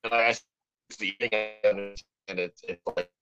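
choppy robotic voice breaking up; glitchy digital distortion on the line. Real, not acted. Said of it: "you were sounding pretty robotic".

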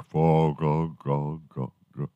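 mouth-made echo fading away; imitated reverberation trailing off into quiet; bellowing theater echo. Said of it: "it bellows throughout the theater".

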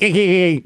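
little mock baby laugh; imitated baby giggle. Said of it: "she does a little baby".

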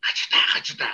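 whispered anime sound effect; breathy hachita hachita; imitated sound effect. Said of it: "a catchphrase or something that goes".

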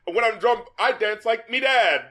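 pirate-ish British "me dad"; mock British accent. Shown as a demonstration. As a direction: lean into "me" like a British bloke. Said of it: "you sound like a fucking pirate now".

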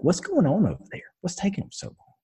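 put-on high, fretful old lady voice; frail old lady asking what the holdup is; grandma style. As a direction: pitch it up like a worried grandma. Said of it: "she's like a grandma style".

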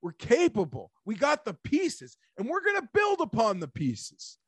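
normal talking voice

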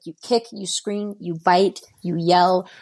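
retold motherly instructions, punched on "bite" and "yell"; firm list, hitting "bite" and "yell" hard; emphatic advice. Mother's advice, listed forcefully.

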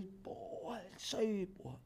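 whispered aside, very soft; under the breath, barely voiced; hushed approval. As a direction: imitate a quiet nod of encouragement. Mimics Neymar's aside beside him.

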